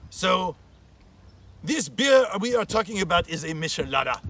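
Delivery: put-on Spanish accent, grand and unhurried; mock-dignified Spanish accent. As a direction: play a dignified Spanish uncle hosting. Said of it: "I'm going to use my best dignified Spanish accent".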